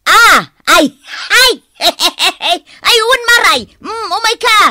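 loud, high squealing delight with a laugh; excited welcome. Acted. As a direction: gush over the visitor. Host greets arriving neighbour.

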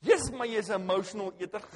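loud, laughing imitation of his wife; laughing mock wife. Husband voicing his wife's verdict, laughing. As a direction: tease your own habit through laughter.

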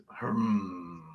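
low drawn-out hum. Acted. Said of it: "He just goes".

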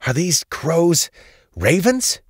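high, loud, startled question; blurted out. A narrator's reading. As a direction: blurt it while fending off an attack. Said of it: "she blurted out while fighting them away".

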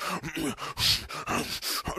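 imitated angry munching, wordless; aggressive chewing noises. Son mimicking pissed dad eating burger, angry chewing. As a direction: grunt and chomp like furious burger eating. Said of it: "chew a burger more aggressively".

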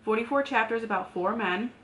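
talking while chewing gum; slightly slurred around gum. Real, not acted. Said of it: "Sorry, I have gum in my mouth, so if I'm slurring".

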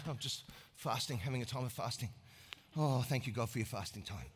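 weak, quiet, self-pitying sigh of a hypocrite. Acted. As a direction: play the martyr fasting for attention. Mocking showy faster, weak voice.

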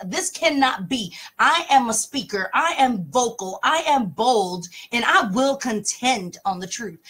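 loud, emphatic self-assertion; defiant protest. Retold or imitated. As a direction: insist on your own voice. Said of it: "crying for the whole week".

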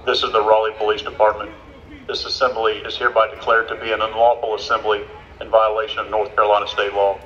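dispersal order over a megaphone; police megaphone. Real, not acted. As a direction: read it like a police announcement.

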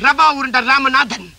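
slow grand self-announcement; villain announcing his name; villain name intro. Acted. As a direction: slowly roll out the name. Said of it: "எக்கோல சொன்னா ஒரு effect".

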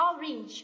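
orange as 'OR-inj', drawn out; slow orange with a short E in the second syllable; correct E sound. Shown as a demonstration. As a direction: end orange in a short '-rinj'. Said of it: "Đây, âm E nhá".

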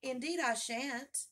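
impatient, emphatic retort; rather impatient. A narrator's reading. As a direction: protest with mild indignation. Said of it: "rather impatiently".

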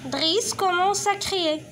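slow, clear reading; slow teacher read; slow read-aloud. Shown as a demonstration. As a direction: read slowly for pupils. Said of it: "teacher reads slowly".

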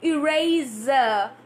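Eraser said slowly with the final ER clear; Eraser modelled. Shown as a demonstration. Teacher modelling the ER ending of Eraser. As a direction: draw out the ER at the end of Eraser. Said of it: "Try to get some words".

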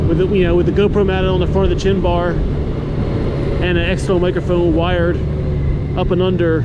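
helmet-cam mic while riding in wind; inside a helmet. Real, not acted. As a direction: talk into a GoPro mic inside an open-face helmet. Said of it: "looks and sounds in action".

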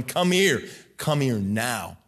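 a hint of a stern father, slowing at the end; lightly voiced firm summons; stern parent God. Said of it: "Instead of God going".

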